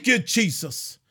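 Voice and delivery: rally the saints for battle; fired-up preaching. Real, not acted. Preacher rousing the saints to spiritual warfare, fired-up preaching.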